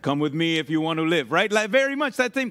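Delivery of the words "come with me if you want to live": low, badly faked action-hero voice; deep, half-hearted action-star impression; Arnold Schwarzenegger. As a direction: do a bad movie tough guy, pitched low. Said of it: "That was a horrible Arnold, Arnold, uh, Schwarzenegger impersonation".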